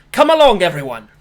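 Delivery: shouted call. Acted. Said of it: "You can hear him shout".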